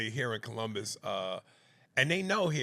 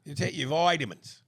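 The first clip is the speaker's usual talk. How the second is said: put-on "vitamins" as VIT-a-mins in a terrible British accent; a hammed-up, awful British accent; bad British accent; 4 semitones higher, 5 dB louder than usual. Teasing his co-host in a bad British accent. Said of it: "that is the worst accent".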